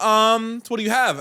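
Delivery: put-on high, cheeky kid voice; bargaining kid. Son bargaining with the neighbor, cheeky and high. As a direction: ask like a kid shopping for better candy. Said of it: "he's like".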